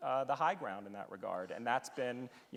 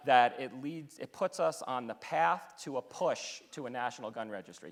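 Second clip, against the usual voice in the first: Senator Cruz impression; 3 dB louder than usual. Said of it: "let me see if I can do my Senator Cruz impression".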